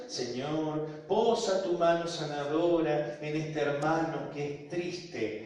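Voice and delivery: slow, drawn-out retold prayer; imitating a gentle, slow prayer. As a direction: pray it unhurriedly over someone. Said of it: "empieza a hacer una oración despacito".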